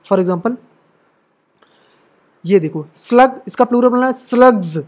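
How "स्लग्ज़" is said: स्लग्स ending in a voiced "gz"; plural Z sound. Shown as a demonstration. Teacher forming the plural of slug, voiced z ending. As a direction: buzz the last s of स्लग्स as z. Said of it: "वो एस को हम ज पढ़ते हैं".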